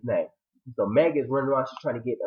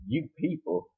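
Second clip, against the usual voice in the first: questioning echo; 3 semitones higher, 5 dB quieter, slower than usual. Retold or imitated. Bush Queen repeating the words back, questioning. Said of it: "And then the Bush Queen's like".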